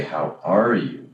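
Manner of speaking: slow, genuinely curious "How are you?"; sincere, interested how are you. Shown as a demonstration. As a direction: stretch out "How are you?" like you really want to know. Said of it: "that changes it".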